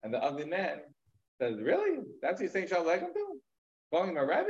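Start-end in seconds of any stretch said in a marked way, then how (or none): 1.6-4.5 sharp high "Really?" then mock disbelief; incredulous scoff. Ugly man scoffs at townspeople greeting the rabbi, incredulous.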